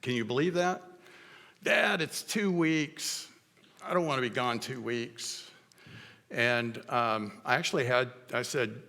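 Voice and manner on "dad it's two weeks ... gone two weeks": put-on whiny teen protest. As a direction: drag out the complaint like a reluctant kid. Son's protest retold in story.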